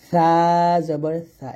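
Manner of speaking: সা with the tongue tip on the upper teeth, thin airflow; soft lisped sa. Shown as a demonstration. Teacher demonstrating the Arabic thin-air সা. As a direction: breathe সা out thinly, tongue at the teeth. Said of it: "পাতলা করে বাতাস বের করে উচ্চারণ করবেন".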